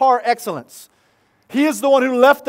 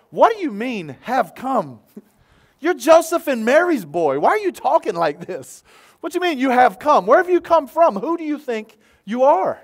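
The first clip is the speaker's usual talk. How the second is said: skepticism; 3 semitones higher than usual. Retold or imitated. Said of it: "particularly those with skepticism, thought".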